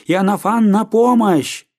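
frantic cry for help, pitched high; calling for help. A narrator's reading. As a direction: yell across the house for the doctor. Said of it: "крикнула она".

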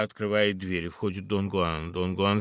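ordinary talk, nothing marked

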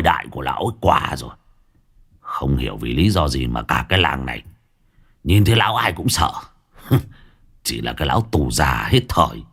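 a swaggering village thug boss, scornful; lightly voiced boss, sneering at old Tú. Gang boss mocking old Tú to his underlings, scornful.

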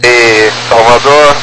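usual speaking voice

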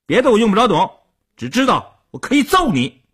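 high-pitched, heated threat; angry threat. A narrator's reading. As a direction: lash back, ready to fight. Hothead threatens, then throws punch.

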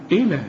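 إيه لا with one short, light ل; single undoubled lam. Shown as a demonstration. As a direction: say إيه لا with no doubling on the ل. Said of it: "لو فتحة بس تقول إيه؟".

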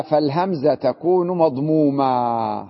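slow recitation of the rule; reading the text aloud. Retold or imitated. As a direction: quote the line slowly. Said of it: "قال". (قراءة النص ببطء)

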